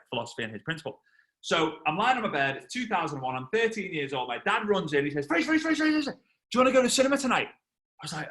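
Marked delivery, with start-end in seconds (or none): 5.3-7.5 high, rushed call to his son; imitating an excited dad. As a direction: burst in eagerly, words tumbling out. Excited dad runs in calling son.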